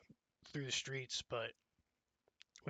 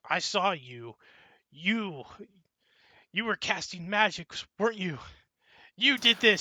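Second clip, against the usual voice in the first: rising higher and louder into an accusation; building accusation; 5 semitones higher, 7 dB louder than usual. Acted. Priest accusing Kenji of bringing the undead, building to a shout. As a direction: build from suspicion to a shouted charge.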